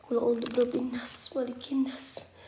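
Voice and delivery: soft, level protective recitation; Quran recitation. Real, not acted. Ghost hunter reciting verses for protection, hushed recitation. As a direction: recite the verses quietly and evenly.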